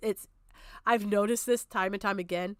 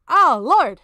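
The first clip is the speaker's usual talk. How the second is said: exasperated groan; 4 semitones higher, 12 dB louder than usual. Real, not acted. Dreading the worse part of the video.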